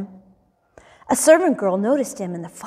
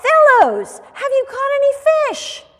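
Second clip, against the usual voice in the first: high, loud hail across a distance; raised, carrying shout of a question; calling out; 6 dB louder than usual. A narrator's reading. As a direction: call to them from far away. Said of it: "He called out".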